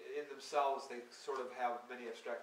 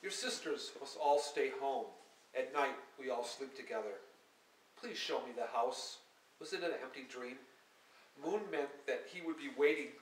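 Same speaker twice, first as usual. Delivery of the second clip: measured, lyrical poetry recital; poem reading; 4 dB louder than usual. Acted. Poet reading her verse to an audience, measured and lyrical. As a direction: read each line like verse to a hall.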